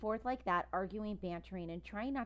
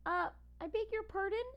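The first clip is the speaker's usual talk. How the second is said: higher, put-on taken-aback voice; offended surprise; 12 semitones higher than usual. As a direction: sound politely affronted. Ivan offended by being called monkey.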